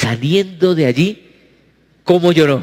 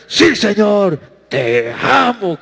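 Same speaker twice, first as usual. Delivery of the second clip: slow, self-assured; Pedro's proud answer before his fall; confident old answer; 3 semitones higher, much slower than usual. Retold or imitated. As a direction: answer with the old boastful certainty. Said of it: "como hubiera dicho antes".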